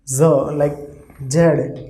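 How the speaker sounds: Z said as a buzzing z; Z sound demo. Shown as a demonstration. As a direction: buzz the Z slowly. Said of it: "pronunciation of S will be Z".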